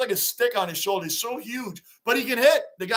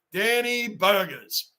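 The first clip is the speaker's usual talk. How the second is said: slow drawn-out nickname; much slower than usual. Shown as a demonstration. Mocking a chunky slugger to chat, slow and savoring. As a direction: stretch each syllable of Danny Burgers slowly. Nickname repeated slowly for effect.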